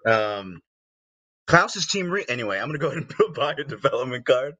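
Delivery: ordinary talk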